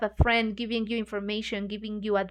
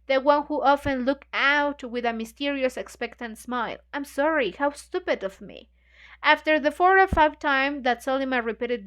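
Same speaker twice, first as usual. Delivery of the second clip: reading a novel aloud to the group; measured, even reading voice; story narration. A narrator's reading. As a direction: read the passage steadily, like a book club reader.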